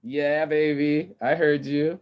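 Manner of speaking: answering neighbor. Acted. Acting neighbor's answer to his shout.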